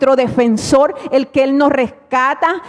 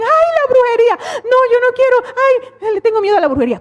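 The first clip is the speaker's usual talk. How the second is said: high, whiny imitation of a frightened believer; mock fearful whimper; 9 semitones higher, faster than usual. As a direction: mimic someone crying in fear of witchcraft. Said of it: "cuando saben que viene el ataque de brujería dicen". (quejido burlón y asustado, agudo)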